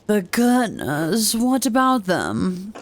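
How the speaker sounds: slow, measured priest voice; lightly voiced priest. Priest answers Andreas about the Gertners, lightly voiced slow priest. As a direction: give the Father a slow delivery. Voices Father Gano in game.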